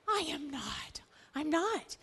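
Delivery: hushed and panicky, pulling back; a nervous whispered no; whispered frightened denial. Acted. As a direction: whisper it, afraid of being caught. Peter denies to the woman.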